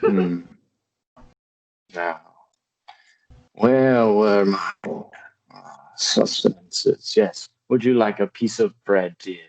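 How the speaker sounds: put-on slow, halting old man, British accent; doddering British father. Old father offers his child food, slow halting British voice. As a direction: lose your thread like an old British lord.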